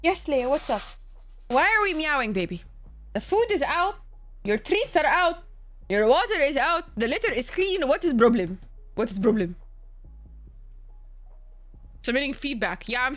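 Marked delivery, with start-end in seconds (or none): 0.0-7.9 pet talk. Real, not acted. Talking to her cat Leia. 7.9-8.6 WHAT IS PROBLEM a touch louder, pressing the cat; louder exasperated question. Real, not acted. Owner demanding answers from her meowing cat, louder and exasperated. 9.0-9.5 What is problem said lower, resigned; lower repeat. Real, not acted. Owner repeating to her cat, lower and resigned.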